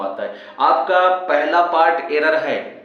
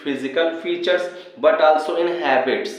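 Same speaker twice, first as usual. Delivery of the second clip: slow dictation; much slower than usual. Shown as a demonstration. Teacher slowly reading the question aloud. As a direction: read "Ramu closely resembles to his father" very slowly. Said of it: "लिखा है".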